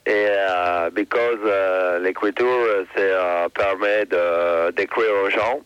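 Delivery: put-on halting French with an English accent; broken French. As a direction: play an Englishman stumbling through French. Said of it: "je parle un peu français".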